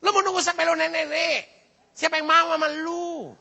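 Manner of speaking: acted-out sisterly scolding; exasperated sister scolding. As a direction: taunt like a fed-up sister. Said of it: "adiknya sendiri bisa bilang".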